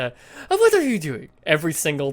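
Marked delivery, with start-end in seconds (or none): 0.5-1.3 high, loud mock mother swooping downward; mother's voice, high to low. Shown as a demonstration. Demonstrating mother's pattern, high-to-low exaggerated voice. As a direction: start high and go low, exasperated. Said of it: "start high and go low like that".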